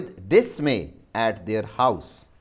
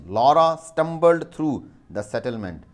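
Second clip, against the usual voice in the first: dictation read; 3 semitones higher, 4 dB louder than usual. Shown as a demonstration. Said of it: "I repeat the sentence".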